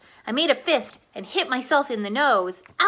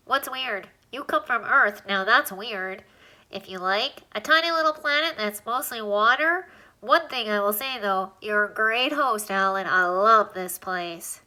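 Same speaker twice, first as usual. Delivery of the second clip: a lightly squeaky little alien, pleased with the rooms. Acted. Alien lists the rooms in Alan's nose, lightly squeaky and pleased.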